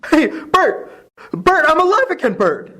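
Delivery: high, elated cry; overjoyed. Acted. George greets Bert, overjoyed to be back. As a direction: burst with relief and joy. Joyful realization.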